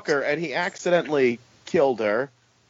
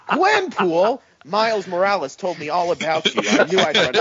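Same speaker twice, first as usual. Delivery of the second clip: Peter's voice pitched up, startled; high startled Peter naming Gwenpool; high mock surprise; 5 semitones higher than usual. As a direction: play a startled hero, voice lifted. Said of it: "Peter guessing again".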